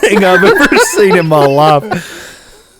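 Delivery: laughing through the words, drawn out; slow, helpless laughter under the sentence. Real, not acted. Friend reacting to hilarious trail camera pictures, laughing.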